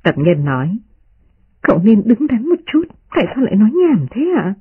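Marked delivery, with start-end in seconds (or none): 1.6-4.5 put-on lightly higher young maid, coaxing her master; a hint of a maid urging caution; gentle maid pleading. Maid Tập Nhân voiced.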